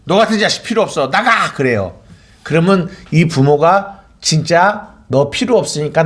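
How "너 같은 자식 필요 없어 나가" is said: fast, raised mock outburst from an exasperated parent; hammed-up angry parent, higher and quick. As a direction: blurt it out like a parent at the end of their rope. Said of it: "부모가 자식에게".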